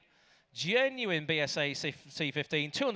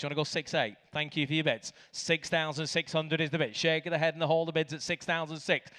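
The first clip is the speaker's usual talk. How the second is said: auctioneer. Real, not acted. Auctioneer calling bids.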